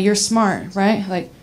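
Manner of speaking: easy, reassuring pep talk to oneself; calming self-talk. Acted. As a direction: talk yourself down from anxiety. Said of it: "I try to calm myself down".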